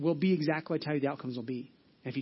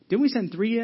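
startled king; 6 semitones higher, 7 dB louder than usual. Retold or imitated.

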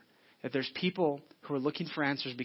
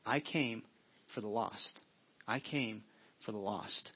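low and much softer, fading with each phrase; God's voice, hushed; 5 semitones lower, 7 dB quieter, slower than usual. Retold or imitated. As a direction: let God's words sink to a hush. God's words, repeated, fading low.

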